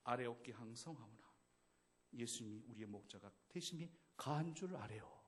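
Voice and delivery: a hint of a court servant in a period drama; historical drama style. Shown as a demonstration. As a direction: speak like a humble subject at court. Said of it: "사극적인 버전을 한다면".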